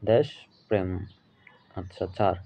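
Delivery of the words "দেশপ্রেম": দেশপ্রেম said as two separate parts, দেশ then প্রেম; correct pronunciation. Shown as a demonstration. Teacher giving students the correct pronunciation of দেশপ্রেম, carefully enunciated. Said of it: "সঠিক উচ্চারণ হচ্ছে".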